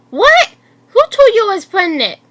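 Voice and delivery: alarmed and loud, caught off guard; freaking out. Acted. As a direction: blurt it out in alarm. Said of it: "freaking out anyway".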